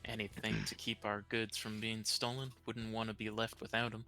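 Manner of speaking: usual speaking voice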